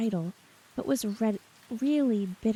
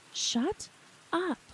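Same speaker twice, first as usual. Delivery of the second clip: screamed; 8 semitones higher than usual. A narrator's reading. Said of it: "screamed the squad leader".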